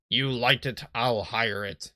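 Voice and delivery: lightly voiced old sea-dog; a hint of stock pirate in it; generic pirate. Boat salesman explains the fog, light generic pirate. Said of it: "my generic pirate".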